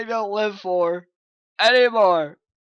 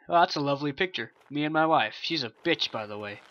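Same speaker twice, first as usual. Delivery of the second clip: fast quiet fading aside; muttered aside; 3 semitones lower, 8 dB quieter, much faster than usual. Real, not acted. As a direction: mutter it under your breath. Muttered aside about wife.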